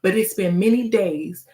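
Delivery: measured spoken-word cadence; poem recitation. Acted. Poet urging listeners to ask God, measured verse. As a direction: recite in short phrases, leaning on the rhymes.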